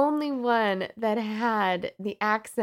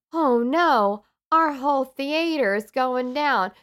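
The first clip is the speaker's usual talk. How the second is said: mock French accent; 5 semitones higher, 6 dB louder, slower than usual. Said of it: "They'd be like".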